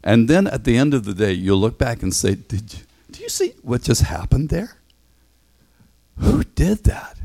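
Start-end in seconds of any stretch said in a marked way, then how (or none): 2.3-7.2 awed hushed question; amazed wonder. Pretend. Imagined amazed look back.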